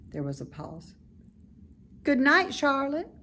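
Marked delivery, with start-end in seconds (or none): 2.0-3.1 higher, eager little pig voice; bright childlike pig, fond of the barn; high, eager young pig; young pig Wilbur. Acted.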